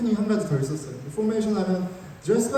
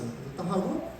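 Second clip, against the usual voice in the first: normal talking voice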